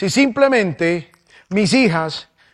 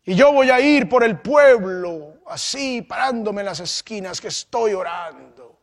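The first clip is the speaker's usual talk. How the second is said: mock piety. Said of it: "esa apariencia de piedad".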